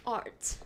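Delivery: "art" with a long open vowel, no R; own pronunciation of art. Shown as a demonstration. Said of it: "I say the word art".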